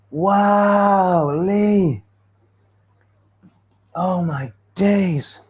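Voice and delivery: long, high, stretched-out wow; amazed delight. Real, not acted. Streamer thanking Lee for the settings tip, amazed delight. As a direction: exclaim it slowly, bowled over.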